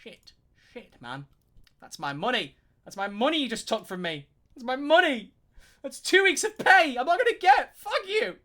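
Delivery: mock tantrum at cancelled lessons, from mutter to high loud yell; building mock rant. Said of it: "I'm like".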